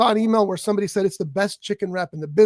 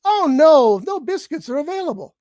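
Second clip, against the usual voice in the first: higher-pitched mock bot with a loud "Oh, no"; AI order-taker voice; 6 semitones higher, 3 dB louder than usual. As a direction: imitate an automated voice refusing an order. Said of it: "And the voice says".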